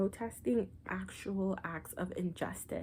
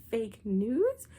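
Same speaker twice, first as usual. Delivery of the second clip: whispered punchline; 2 semitones higher, 3 dB louder than usual. Real, not acted.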